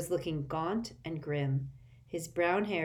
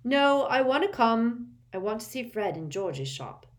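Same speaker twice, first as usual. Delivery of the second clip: hasty; 6 semitones higher, 5 dB louder than usual. A narrator's reading. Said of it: "said Ron hastily".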